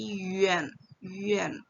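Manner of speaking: Yuan as "yü-en" in one glide, falling; direct Yuan. Shown as a demonstration. Teacher repeating the correction, joined-up demo. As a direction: run each Yuan straight through.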